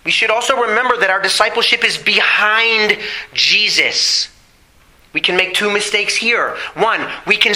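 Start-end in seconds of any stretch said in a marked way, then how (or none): 1.1-4.3 BEHIND drawn out with weight; stress on BEHIND. Real, not acted. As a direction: lean firmly on the word "behind". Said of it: "I emphasize the word behind".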